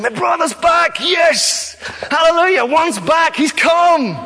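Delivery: welcoming father's-heart son cheering his brother home; joyful shout. Acted. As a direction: celebrate like you can't contain it. Father's heart celebrating brother's return.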